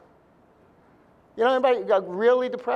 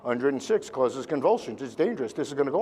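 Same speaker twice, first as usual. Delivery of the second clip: inner worried voice; 8 semitones lower, 4 dB quieter than usual. Retold or imitated. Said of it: "that little voice in the back of your head".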